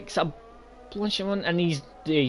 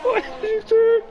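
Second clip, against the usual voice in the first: 1 laughing squeal. Real, not acted. Laughing at a driver's mistake.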